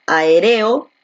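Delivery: "aéreo" stressed on RE, the third syllable; misplaced stress. Shown as a demonstration. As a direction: wrongly hit RE in "aéreo". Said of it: "Donde la fuerza de voz recae aquí en la E".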